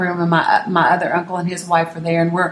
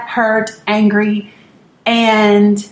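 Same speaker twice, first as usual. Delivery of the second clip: ordinary talk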